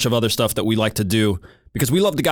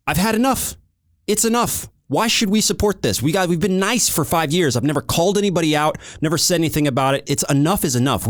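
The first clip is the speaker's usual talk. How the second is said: pitched high, building mock rant; a hammed-up fit of fake fury; mock outrage; 5 semitones higher than usual. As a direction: act fed up and worked up.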